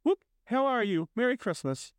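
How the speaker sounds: high-pitched, joyful whooping hellos; giddy greeting. Acted. Scrooge hails everyone on Christmas morning, giddy. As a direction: call out festive greetings, pitched well up.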